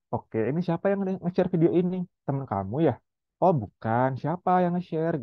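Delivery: patient, gentle questioning; calm and patient. Shown as a demonstration. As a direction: parent calmly asking a child who shared the video, patient. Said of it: "Jadi tetap tenang".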